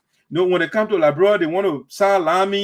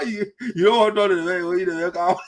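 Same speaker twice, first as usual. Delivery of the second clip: laughing. Real, not acted. Mocking snub, laughing.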